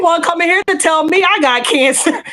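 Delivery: high, laughing mock reproach to the doctor; laughing scolding. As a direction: tease the crying doctor through laughter.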